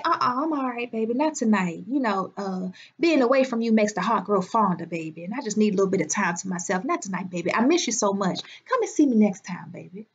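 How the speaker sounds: put-on low, soft, sweet-talking girlfriend putting him off; sweet brush-off. She voices a woman turning down a man.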